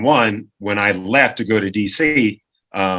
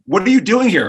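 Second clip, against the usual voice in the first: mock security guard; 8 semitones higher than usual. Security confronting him.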